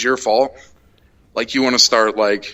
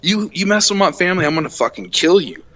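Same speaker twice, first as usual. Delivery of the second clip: retold furious rant; 2 semitones higher than usual. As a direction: let the road rage spill over. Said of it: "I was fucking flipping".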